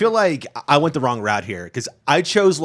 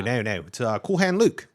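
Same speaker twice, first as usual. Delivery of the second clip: put-on Australian accent; 2 semitones lower than usual. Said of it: "the accent is Australian".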